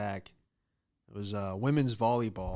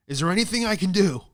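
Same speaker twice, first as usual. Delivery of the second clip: pleading; 8 semitones higher, 8 dB louder than usual. Retold or imitated. Begging teacher for extra credit.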